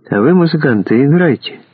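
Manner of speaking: a commanding order, pitch climbing. Acted. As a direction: bark the order upward. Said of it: "приказал парень".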